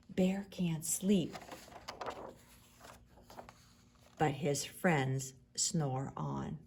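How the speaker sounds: slow soft whisper; hushed ending. A narrator's reading. Reading to children, hushed ending as friends sleep. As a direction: wind it down to sleep.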